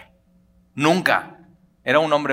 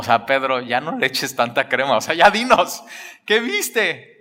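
impatient listener. Pretend. Preacher voices impatient listeners.

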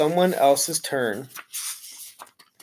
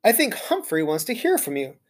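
friendly; 4 semitones higher than usual. Acted. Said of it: "in a surprisingly friendly voice".

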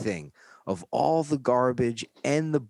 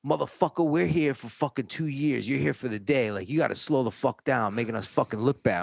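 scolding; 4 semitones higher, faster than usual. Retold or imitated. Co-worker scolds him on work detail.

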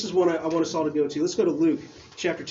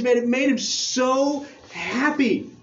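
rising, drawn-out higher delivery; building joy; 4 semitones higher, slower than usual. Real, not acted. Pastor telling the church of Jesus' joy, building excitement. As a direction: lean into the joy, slowing down. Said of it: "he was full of joy".

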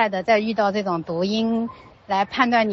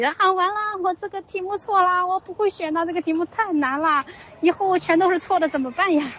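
much higher whiny wail of doom; mock child despair; 10 semitones higher than usual. Son buried in the quilt wailing over one wrong answer, high whiny despair. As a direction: wail like a kid sure everything's ruined.

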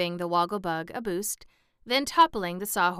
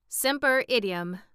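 pompous, louder Latin pronouncement; mildly puffed-up scholar, voice raised; 5 semitones higher, 5 dB louder than usual. A narrator's reading. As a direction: announce it with learned self-importance. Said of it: "explained the Wogglebug pompously".

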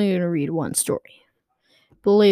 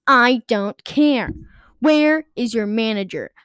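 furious Karen; 4 semitones higher, 4 dB louder than usual. Acted. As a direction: bark it at the cashier. Mom demands the manager.

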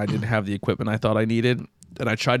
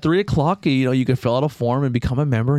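mock-welcoming clerk; 4 semitones higher than usual. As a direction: open high and obliging, then ease down. Club clerk welcomes the disguised caller.

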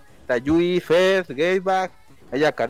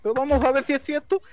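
smug superfan; 5 semitones higher than usual. Acted. Superfan persona taunting.

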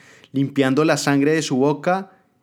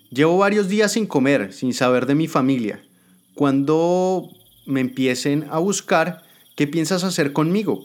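high, slowing plea; pleading captive; 4 semitones higher than usual. Acted. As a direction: ask what will become of her. Starving captive asks her fate.

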